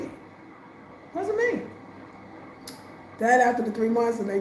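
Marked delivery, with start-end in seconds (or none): 0.0-1.6 soft, high and very drawn-out; hushed slow denial. Retold or imitated. Repeating to herself that it was not her, hushed and slow. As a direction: let it float away slowly, almost to herself.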